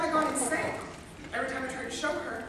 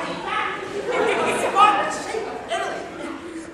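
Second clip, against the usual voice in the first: laughing; 6 semitones higher, 9 dB louder, much slower than usual. Acted. Showing spots, laughing.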